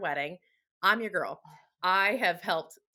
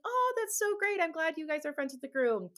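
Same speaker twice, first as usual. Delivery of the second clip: sugary high hostess; 7 semitones higher than usual. Retold or imitated. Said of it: "I'd be like".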